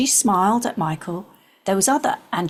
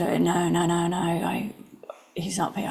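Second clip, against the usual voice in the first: anxious refusal; 5 dB quieter than usual. Retold or imitated. Refusing at childhood home.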